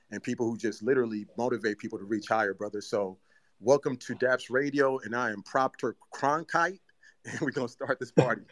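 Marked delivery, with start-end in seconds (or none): 3.6-8.4 congested, blocked-nose voice; talking through a stuffy nose from allergies. Real, not acted. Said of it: "if I sound kinda congested".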